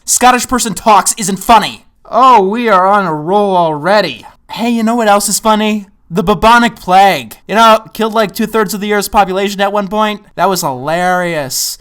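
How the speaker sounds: loud deadpan sarcasm; mock delight at a bad joke; sarcastic. Sarcastic praise of plague joke.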